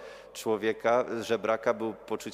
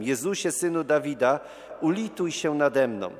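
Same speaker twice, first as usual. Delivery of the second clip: raised-voice plea, moderately loud; calling out; 3 semitones higher, 3 dB louder than usual. Retold or imitated. Blind beggar calls after Jesus, calling out with moderate force. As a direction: imitate a beggar calling out for mercy. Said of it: "zaczyna z całych sił wołać".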